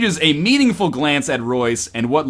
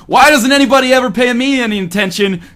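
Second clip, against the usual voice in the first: whiny Cindy voice; 3 semitones higher, 5 dB louder than usual. Acted. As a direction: wail it like a drunk girl feeling sorry for herself. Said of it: "Cindy giggles".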